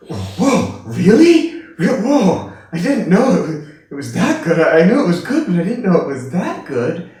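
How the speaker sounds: high, loud, gushing wonder; a thrilled fan overdoing her praise; gushing amazement. Retold or imitated. Lady gushing over the lecture, high and loud.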